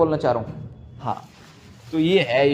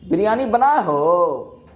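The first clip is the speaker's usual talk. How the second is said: Bihari dialect; 3 dB louder, much slower than usual. Retold or imitated. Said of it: "भाई".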